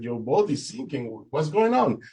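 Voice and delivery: retold shocked question, climbing high; alarmed disbelief. Swimmer hearing the rescue boat is sinking, alarmed disbelief.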